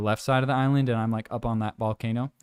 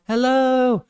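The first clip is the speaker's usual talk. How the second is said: high, sing-out mock greeting; greeting grandma; 11 semitones higher, 4 dB louder than usual. Smiling village grandmas greeting a walker, high friendly imitation. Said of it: "All the grandmas".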